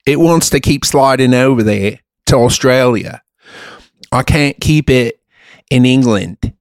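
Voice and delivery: British accent sliding toward Australian. Shown as a demonstration. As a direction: attempt British and drift into Aussie. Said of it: "here's my British accent".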